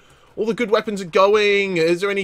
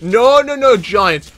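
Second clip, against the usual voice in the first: alarmed no; 3 semitones higher, 6 dB louder, slower than usual. Real, not acted. Panicked at the giant.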